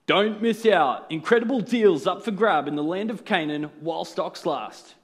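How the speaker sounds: upbeat news announcer; newsreader voice. Pretend. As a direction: read it like a breaking headline. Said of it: "put on my best newsreader voice".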